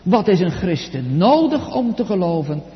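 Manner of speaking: "nodig" stands out from the question; stress on NODIG. Shown as a demonstration. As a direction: put firm emphasis on "nodig". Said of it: "met nadruk op nodig".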